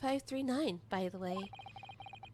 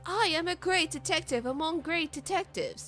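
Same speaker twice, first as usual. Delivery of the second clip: pompous gentleman detective; 5 semitones higher than usual. Acted. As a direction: declare it with theatrical pride. Sholmes voiced again.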